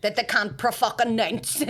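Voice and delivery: "pro-fucking-nounce" split by the swear, punched; exasperated emphasis. Retold or imitated. Ma complaining about names, "pro-fucking-nounce" broken up with emphasis.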